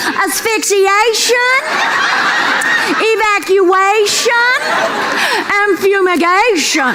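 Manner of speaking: drawn-out list. Acted. Listing the bathroom "shuns.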